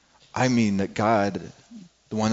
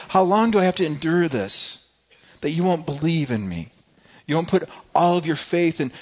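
frustrated; 4 semitones higher than usual. Retold or imitated. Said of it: "he's getting frustrated there".

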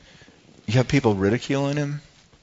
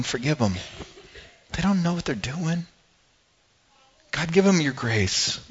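soft, pleading prayer; tender plea; 4 semitones higher, 6 dB quieter than usual. Acted. Jesus asking God to forgive them, soft plea. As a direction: plead softly for mercy.

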